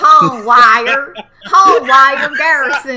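loud, slow mock Texas twang; Texas accent. Echoing the Texas joke back, loud Southern drawl. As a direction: drag out Hanweir like a cowboy. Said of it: "'cause I'm from Texas".

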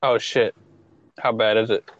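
breaking up on the call; choppy glitching mic audio; buzzy glitchy call audio. Real, not acted. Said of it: "You're breaking up, by the way, your mic".

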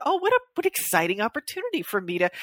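sarcastic enthusiasm. Acted. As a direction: gush sarcastically about the great opportunity. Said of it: "like, sarcastic positive self-talk".

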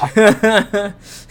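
loud theatrical villain laugh. Real, not acted. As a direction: cackle like a cartoon villain. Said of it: "Minha risada, minha risada de vilão".

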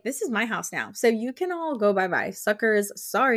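cocky, teasing dismissal; sassy send-off. Retold or imitated. New owner kicking everyone out, sassy dismissal. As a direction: imitate a gloating, sassy goodbye.

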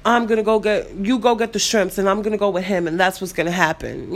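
imitating his take-charge, mildly aggressive delivery; stern boyfriend. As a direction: lay down the plan as he did, firmly. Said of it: "It was more so the way he said it".

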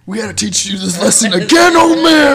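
high, loud gruff threat; mock shout. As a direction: shout it like a scolding elder. Acted quote to old man.

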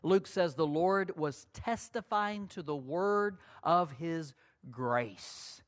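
ordinary talk, nothing marked

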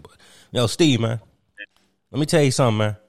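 lightly voiced caller reaching out; casual put-on ex-player voice; Kwame Brown. Kwame Brown greeting Steve on the line, lightly voiced. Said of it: "I present to you Mister Kwame Brown".

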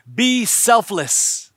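slow, firm exhortation; slow emphatic. Real, not acted. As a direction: press each word slowly. Preacher repeats the exhortation.

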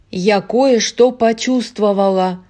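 loud outburst; yelling. Acted. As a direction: blurt it out in a yell. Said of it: "завопила Луиза".

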